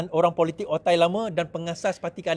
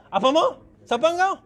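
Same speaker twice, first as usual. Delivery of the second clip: mock arrogant snub; 9 semitones higher than usual. Arrogant winner snubbing voters.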